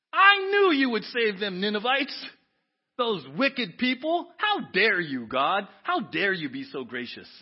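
slow, loud, incredulous outrage; indignant Jonah. Acted. Preacher acting Jonah furious at God's grace, slow and loud. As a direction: sneer at God's grace, drawn out.

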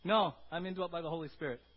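loud, firm refusal of the lie; Robert answering the devil's lies loudly; firm rebuttal. Acted. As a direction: push back hard on the devil. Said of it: "Robert says".

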